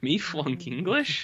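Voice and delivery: put-on slow, dopey childlike voice; Ralph Wiggum voice. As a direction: play it dim and earnest. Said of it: "a lot of Ralph talk tonight".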